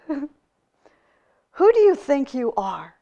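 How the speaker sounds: loud, slow, indignant tirade; the angry hermit scolding the visitor who disturbed his retreat; angry outburst. Acted. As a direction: rail at the intruder, still fuming. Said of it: "he exploded".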